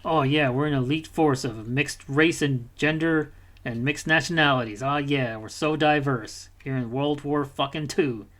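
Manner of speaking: a sarcastic, slow send-up of a cool squad; mock boastful. Gamer mocking the squad's forced cool, mock boastful. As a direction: sneer it as the game's smug heroes. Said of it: "they try to make you be like".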